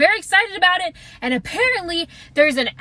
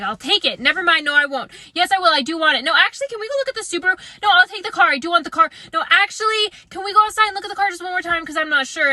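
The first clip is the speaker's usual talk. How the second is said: indecisive flip-flopping; 3 semitones higher, faster than usual. Retold or imitated. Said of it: "I was up and down".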